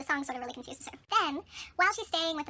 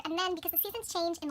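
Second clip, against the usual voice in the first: ordinary talk, nothing marked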